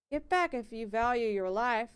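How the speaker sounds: put-on country accent. Miller threatening the stranger, light country accent. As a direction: warn him off, mild country accent. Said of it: "it's sticking now".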